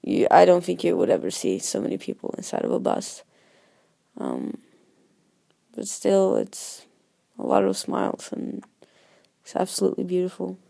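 hoarse, raspy voice from a cold; whiskey voice. Real, not acted. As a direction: rasp through a sore throat. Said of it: "sorry about my really bad whiskey voice".

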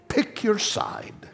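slow breathy whisper. Real, not acted. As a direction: lean in and whisper it. Whispered aside after laugh.

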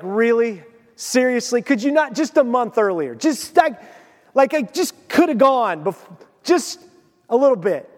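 halting, mock-whiny plea; exasperated pleading. Man imagines complaining to God about raking, exasperated pleading.

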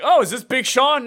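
high, bright "Oh" of confused recognition; mock-surprised guess; mock surprise. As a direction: play the puzzled listener. Mocking confusion over rappers.

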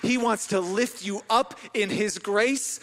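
loud, slow retold proclamation; emphatic proclamation. Pastor retelling what he told the crying woman, emphatic proclamation. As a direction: lean on each stressed word, drawn out.

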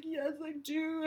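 put-on a hurt little boy admitting it; imitating sad son. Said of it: "And he's like".

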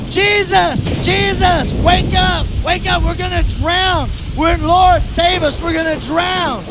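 frightened disciples shouting over the storm; panicked yelling. Retold or imitated. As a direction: call out to wake him in the storm. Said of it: "they're yelling because you have to yell".

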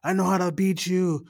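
imitating a hysterical movie line; mock mental breakdown. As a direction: rant at it like a melodramatic actress. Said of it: "she's, like, laughing and crying".

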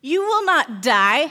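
hissing serpent voice; basilisk. Acted. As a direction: hiss it like a sly snake. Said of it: "hissed the snake".

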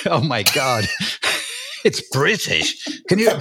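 hammed-up horror at Britishness; mock disgust. British author mimics reviewer's take on the word British, in mock disgust. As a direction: imitate an appalled reviewer, half laughing. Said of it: "she's saying it like British is like".

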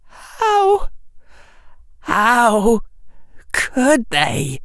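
very high, breaking voice; choked sobbing. Acted. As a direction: fight the lump in the throat. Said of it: "Harry's voice was blocking".

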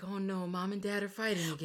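put-on whiny child. Lucien as child.

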